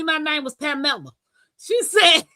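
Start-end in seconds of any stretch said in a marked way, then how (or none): 0.0-1.1 "Pamela" said pa-MELL-a; Spanish-style pronunciation. Retold or imitated. Asking mama about her name, "Pamela" as pa-MELL-a. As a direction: stress the middle of "Pamela", pa-MELL-a. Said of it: "Well, in Spanish".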